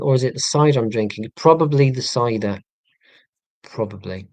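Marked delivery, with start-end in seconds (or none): 1.4-2.6 loud joking answer; louder punchline. Real, not acted. Joking about drinking cider. 3.6-4.3 lower, softer repeat; quiet aside. Real, not acted. Quiet echo of own joke.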